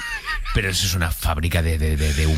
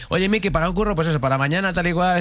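much higher-pitched phone caller; urgent job caller; 10 semitones higher than usual. Acted. Agent phoning Miki with a last-minute job, high put-on caller voice. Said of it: "Te llamaba y dice".

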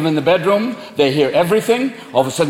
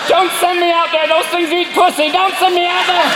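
a terrified cat begging not to be sent out; pleading cat; 10 semitones higher than usual. Acted. Cat begging its owner to keep it indoors, frantic. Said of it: "your cat is sitting in the back going".

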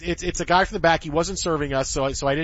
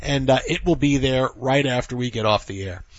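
promo read. Acted.

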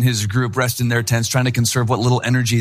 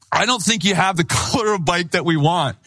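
nervous laughing excuse; 4 semitones higher than usual. Retold or imitated. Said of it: "I looked up, I was like".

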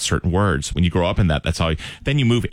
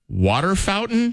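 slow clarifying question; 12 semitones higher, slower than usual. Retold or imitated. Boy clarifying his word.

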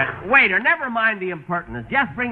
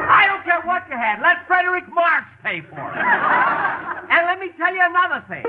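indignant rant, pitch raised high; entitled customer; 10 semitones higher than usual. Acted. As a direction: rant on, fast and outraged. Ranting at boss over check.

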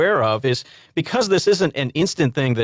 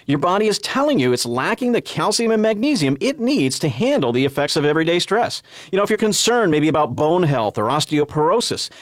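infomercial pitch; 2 semitones higher than usual. Acted. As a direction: sell it to the listeners with lively rises and falls. Reads the infomercial sales pitch.

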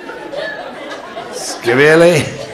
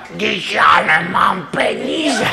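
higher, slow sheepish whine; whiny man; 7 semitones higher, slower than usual. Acted. Man confessing to the woman he has no money, high slow whine.

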